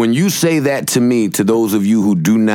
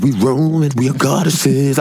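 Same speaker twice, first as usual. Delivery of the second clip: mock goddess; slower than usual. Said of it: "She said".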